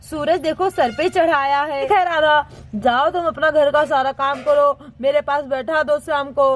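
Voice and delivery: low-pitched domestic dialogue; father and mother chatting. Acted.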